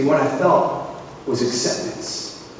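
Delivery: breathy, slow, hushed delivery; slow whispered reveal; soft whispered emphasis. Real, not acted. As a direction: let acceptance land in a near whisper. Key point of the talk.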